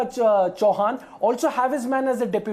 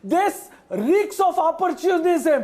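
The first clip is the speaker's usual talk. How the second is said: slow, higher-pitched shout; indignant denunciation; 4 semitones higher, much slower than usual. Real, not acted. Panelist denouncing a defector in a TV debate, indignant shout.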